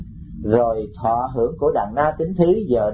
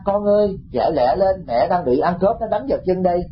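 higher, urgent shout to her son; mother crying out; 5 semitones higher than usual. Acted. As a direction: cry out in alarm so the son flees. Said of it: "Bà mới la". (mẹ la lớn giục con chạy lẹ)

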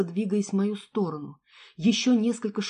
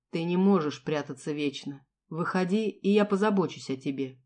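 confident mercenary; 2 semitones lower than usual. Acted. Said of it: "уверенный голос Де Йонги".

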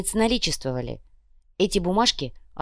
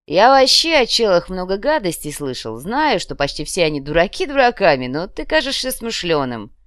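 louder, patronising gangster talk; a hint of a cocky red cap boss; lightly voiced boastful thug; 4 dB louder than usual. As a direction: condescend to him loudly.

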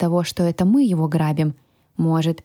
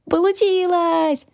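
a much higher, drawn-out excited squeal; squealing dragon; 13 semitones higher, slower than usual. A narrator's reading. The dragon shrieks in delight at the restored pantry, much higher squeal. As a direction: squeal with joy like a tiny dragon. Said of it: "завизжал дракон".

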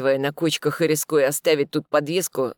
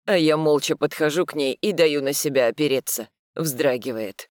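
ordinary delivery

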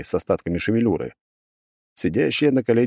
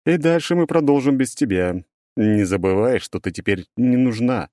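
stern stone monotone; 4 semitones higher than usual. Acted. Golem threatening.

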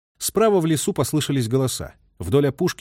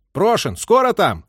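impatient call; 8 semitones higher, 5 dB louder than usual. A narrator's reading. Captain hurries the crew.

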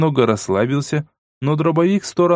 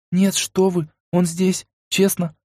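put-on higher girl's voice, hurried and scared; scared chatter; 6 semitones higher, slower than usual. A narrator's reading. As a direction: rush the denial in fear. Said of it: "испуганно затараторила та". (испуганно тараторя)

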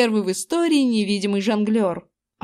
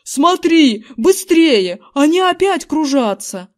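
loud, higher urgent shouting; urgent yell; 5 semitones higher, 6 dB louder, slower than usual. A narrator's reading. Husband begging wife to look again, loud urgent shout. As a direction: hurry her, shouting.

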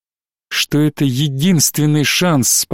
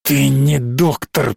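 hoarse; slower than usual. Acted. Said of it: "прохрипел Антон".

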